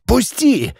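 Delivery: high strained let go; struggling plea. Acted. Andrei pinned to the wall begs to be released, high. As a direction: plead while twisting free.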